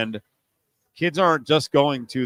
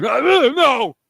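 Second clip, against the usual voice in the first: much higher and louder mock whine; whiny listener; 11 semitones higher, 8 dB louder than usual. Host mocks listeners whining about the new college football, high loud whine. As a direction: mimic a fan who hates change, whining high. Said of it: "you're like".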